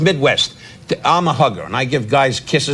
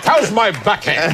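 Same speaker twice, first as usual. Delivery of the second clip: slow, higher laughing repeat of the tennis question; Regis asking his wife; 5 semitones higher, slower than usual. Retold or imitated. Regis at home asking his wife, slow, higher and laughing. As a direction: tease the tennis freak again. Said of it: "he's a tennis freak".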